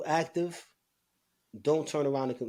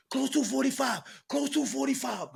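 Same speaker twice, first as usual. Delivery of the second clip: calling out; 11 semitones higher than usual. Retold or imitated. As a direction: bark the order down the tier. Guard calling to close cell.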